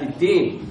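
الدين said with t in place of d; dal turned taa. Shown as a demonstration. Teacher showing the grave error, dal turned taa. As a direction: devoice the d of الدين into a t. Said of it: "بقت أقرب من التاء".

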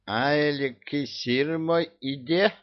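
high, slow dismayed question; gasping Koschei. A narrator's reading. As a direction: gasp out the loss. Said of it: "ахнул Кощей". (ахнувший Кощей)

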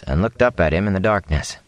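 ordinary delivery

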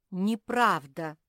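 slow, high, loud denial. A narrator's reading. Squirrel backing away from the bear, loud denial. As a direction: protest it loudly, drawn out. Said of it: "попятился Чинк".

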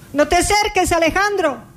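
high, laughing mock alarm to a child; mock warning. Mother warning little Alejandro away, laughing. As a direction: warn him off, half laughing. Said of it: "quoted warning to child, laughing".

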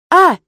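short loud yelp of pain; cry of pain. A narrator's reading. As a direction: yelp as if suddenly hurt. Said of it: "выкрикнул демон".

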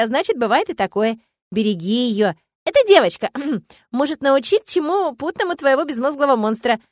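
gruff-kind forest spirit. A narrator's reading. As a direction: grumble thanks like a pleased old woodsman.

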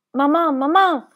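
put-on high, loud little child crying out; child's scream. A narrator's reading. Little boy screaming for his fainted mother, high child's cry. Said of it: "urlò il piccolo".

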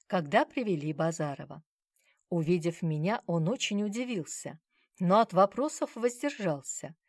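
ordinary delivery

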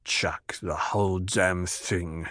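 slow, soft whispered mumble; mumbled. A narrator's reading. Drunk Idaho giving up, whispered mumble. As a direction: mumble it under your breath.

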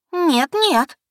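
high loud no, cutting her off; резко перебивая; cutting interruption. Acted. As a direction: stop her sister mid-sentence. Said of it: "перебила она меня".

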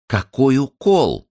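high, slow and loud retort; Zinulya's voice. A narrator's reading. Zinulya answering the wife's prayer, high and slow. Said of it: "ответил Господь Зинулиным голосом".

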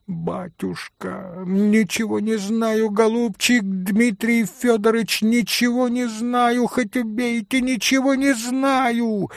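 high, rising pleas of a terrified maid; frightened swearing. A narrator's reading. Maid Fenya swears to Mitya she knows nothing, rising high and frightened. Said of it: "Заклялась, забожилась Феня".

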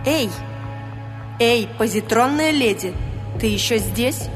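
high, searching call into the void. Acted. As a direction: call out inside her own head. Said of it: "Сюзанна выкрикнула". (мысленный окрик)

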